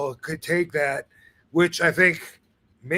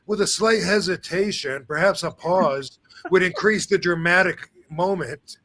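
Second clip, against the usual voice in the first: mock literary wording. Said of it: "he's not gonna say, like".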